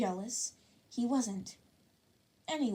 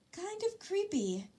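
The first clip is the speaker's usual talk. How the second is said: eerie; 10 semitones higher, slower than usual. A narrator's reading. Narrator stresses creepiness.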